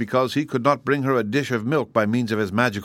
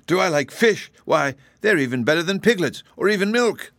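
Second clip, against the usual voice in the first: excited kitten; 8 semitones higher than usual. A narrator's reading. Kitten thrilled about fish.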